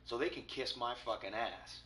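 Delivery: real anger. Real, not acted. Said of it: "I'm a little pissed, can you tell?".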